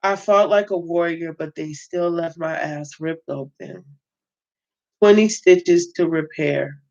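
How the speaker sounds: steady read-aloud narration of a prison memoir; reading a novel aloud. Acted. Reader voicing the book's narrator, read-aloud narration. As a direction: read it like a story to your viewers.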